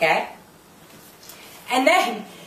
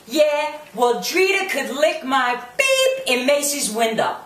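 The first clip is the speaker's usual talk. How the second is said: lightly mocking mimicry, higher at the start; Karen; 4 semitones higher than usual. Quoting Karen's insult about Drita, lightly mocking imitation. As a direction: retell her brash comeback with mild mockery. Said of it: "when she says".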